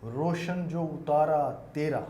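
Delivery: naat recitation. Acted. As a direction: recite each word with weight. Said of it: "میرا ایک مطلع بھی ہے".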